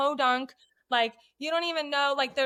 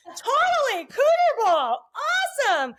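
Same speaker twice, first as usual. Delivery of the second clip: mock eager; 11 semitones higher, 6 dB louder, slower than usual. Faking enthusiasm about cooter ball.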